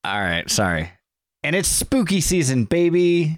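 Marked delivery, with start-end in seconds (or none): 1.4-3.4 drawn-out spooky intro line; spooky announcer. Shown as a demonstration. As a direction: ham up the spooky catchphrase.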